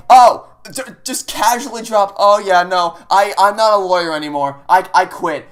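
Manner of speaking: mocking Phoenix. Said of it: "Oh, say".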